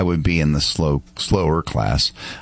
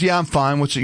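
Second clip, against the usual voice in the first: imitating a cocky kid, higher pitched; 6 semitones higher than usual. Fallen rollerblader brushing off the man checking on him, mock cocky. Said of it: "like, uh, cocky".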